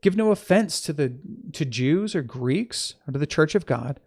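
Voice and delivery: emphatic reading of an epistle; scripture reading. Acted. Teacher reading Paul's letter to listeners, emphatic scripture reading. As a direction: read it out clearly, lifting key phrases.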